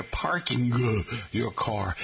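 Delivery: "parking" with a hard, separate final G; over-pronounce parking as parking-guh, slowly; G's pronounced. Retold or imitated. Professors correcting a student, "parking" with hard G. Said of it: "stop dropping your G's".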